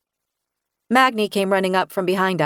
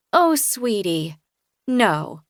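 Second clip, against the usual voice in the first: tender comfort; much slower than usual. Acted. Narrator comforting Sam, slow tender voice. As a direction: soothe the hurt child.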